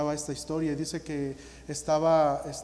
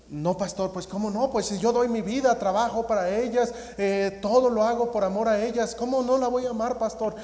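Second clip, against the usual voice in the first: higher and louder, insistent disbelief; pleading protest; 6 semitones higher, 7 dB louder than usual. Retold or imitated. Father protesting to the pastor that he loves her, higher, louder pleading. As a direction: push back hard, hurt that anyone doubts him.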